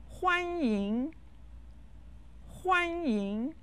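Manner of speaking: 欢迎 with a high level first tone, then a rising second tone. Shown as a demonstration. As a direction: say 欢迎 slowly: huān high and flat, yíng rising. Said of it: "欢迎 is said with the first and the second tone".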